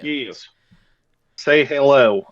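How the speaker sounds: light Southern drawl; a hint of Southern twang; Southern accent. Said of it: "I'm doing a Southern accent".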